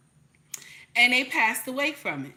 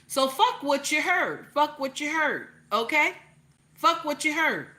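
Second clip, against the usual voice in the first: raised, emphatic and defiant; 4 semitones higher than usual. Real, not acted. Telling viewers to ignore the doubters, defiant and raised. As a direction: hammer the dismissal home.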